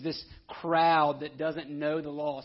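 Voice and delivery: slow, loud scorn for the crowd; venomous sneer. Retold or imitated. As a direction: spit it out with contempt. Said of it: "With, with venom".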